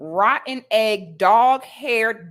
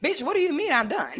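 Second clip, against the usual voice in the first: higher, laughing through the words; laughing disbelief; 7 semitones higher than usual. Real, not acted. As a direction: laugh it off, incredulous.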